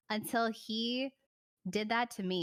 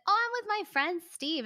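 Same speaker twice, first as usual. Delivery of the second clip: higher, louder breezy brush-off voice; mock casual boyfriend; 10 semitones higher, 4 dB louder than usual. Boyfriend lying about Steve, breezy mock brush-off. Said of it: "He was like".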